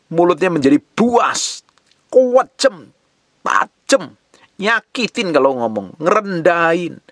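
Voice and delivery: high-pitched, emphatic sermon delivery; exasperated rebuke from the pulpit; impassioned preaching. Real, not acted. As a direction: preach with key words stretched long and high. Preacher rails against sharp tongues.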